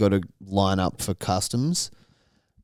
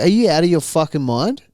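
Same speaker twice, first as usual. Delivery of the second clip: mock angry rebuke; 6 semitones higher than usual. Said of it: "And I'm like".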